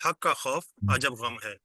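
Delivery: حق کا خوف عجب غم ہے read slowly, word by word; یاد کرنے کے لیے آہستہ; slow mnemonic. Shown as a demonstration. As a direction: spell out the memory phrase. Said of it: "اس جملے کو یاد کر لیں".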